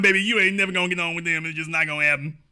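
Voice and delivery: talking to her like a pitying elder, softly; gentle put-down. Retold or imitated. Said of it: "told her what I've been telling".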